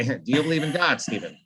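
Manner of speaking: lightly imitated Kubrick, trailing down; a hint of the real Kubrick; plain-ish Kubrick. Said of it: "sounds more like this".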